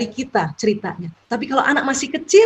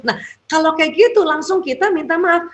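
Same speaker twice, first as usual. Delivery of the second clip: ordinary talk, nothing marked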